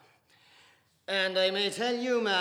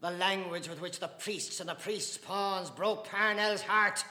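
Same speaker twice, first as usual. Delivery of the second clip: loud, high, building outcry; cried out; 11 semitones higher, 19 dB louder than usual. Acted. Mr Casey crying out for Parnell against Dante, building outcry. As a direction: cry it out, rising to a peak. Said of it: "cried Mister Casey".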